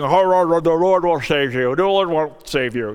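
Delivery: a jeering laugh, then a sneer at the man; sneering enemy's mock laugh; mocking taunt. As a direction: taunt him like a scornful enemy. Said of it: "accusing me, saying".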